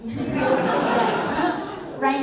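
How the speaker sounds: very slow, laughing drawl. Shown as a demonstration. Repeating the joke to the audience, laughing slowly. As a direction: stretch it out through a laugh. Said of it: "Like, you'd be dead".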